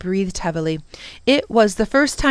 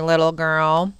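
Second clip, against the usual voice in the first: put-on low, slow sneer of little girl; condescending villain; 3 semitones lower than usual. The Prock belittling Lindy, low and condescending. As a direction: talk down to her with little girl.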